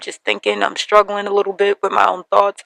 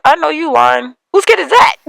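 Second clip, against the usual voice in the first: incredulous; 8 semitones higher, 4 dB louder than usual. Retold or imitated. Daughter to her late mother in a dream, rising shocked disbelief. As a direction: pitch climbing high in disbelief. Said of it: "And I was like".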